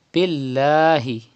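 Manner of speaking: billahi with a light, thin lam; careful tajweed of billahi; slow recitation. Shown as a demonstration. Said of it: "read lam with thin voice".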